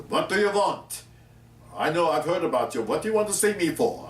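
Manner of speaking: lightly mimicked accent, pitched high; Otto Preminger. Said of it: "Otto Preminger with his accent".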